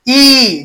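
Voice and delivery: ई held with the tongue pushed forward; front vowel. Shown as a demonstration. Teacher showing the tongue coming forward, held ई. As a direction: sustain ई at the front of the mouth. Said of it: "जीभ आगे आ गया".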